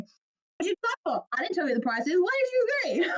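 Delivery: loud, high mock interrogation; hammed-up accusing shout with laughter breaking in; in-your-face demand. The ex-archmage up in her face demanding, loud and high. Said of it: "instantly up in my face going".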